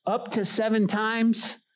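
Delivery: high, slow, hopeful question; proudly offering Peter. Acted. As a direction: pitch it up, pleased with the offer.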